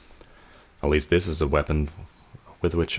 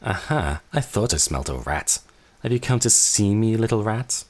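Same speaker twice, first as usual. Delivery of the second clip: higher, mocking sister's voice; taunting sister; 5 semitones higher than usual. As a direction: toy with the little rat.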